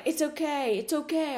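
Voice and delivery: retold upbeat reassurance; reassuring. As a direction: comfort him quickly after embarrassment. Retold reassurance after he hangs up.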